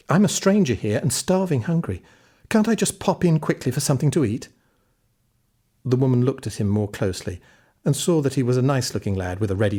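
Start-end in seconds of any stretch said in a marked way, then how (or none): 0.1-4.5 put-on pleading boy. Jack pleads at the door.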